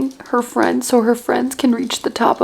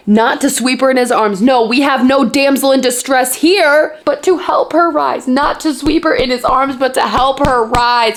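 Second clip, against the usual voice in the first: reading aloud with emphasis on to; reading the big line with relish; dramatic reading. Shown as a demonstration. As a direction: savour each phrase as it is read. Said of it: "Here we go".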